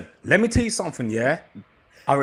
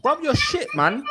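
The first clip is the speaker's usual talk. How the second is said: taunting insult; 8 semitones higher than usual. Acted. S1 insults Gain.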